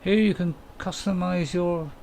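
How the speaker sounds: slow, deliberate read of the menu text; reading game text aloud. Shown as a demonstration. Streamer reads the game menu to viewers, slow announcer read. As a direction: spell out the on-screen prompt slowly. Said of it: "I got a job to read that".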